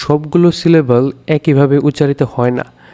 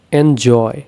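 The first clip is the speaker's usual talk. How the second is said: এনজয় with weight on জয়; stress on second syllable; 2 semitones lower, much slower than usual. Shown as a demonstration. Teacher demonstrating stressed syllables, এনজয় stressed on জয়. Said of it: "জয়টা হচ্ছে stressed".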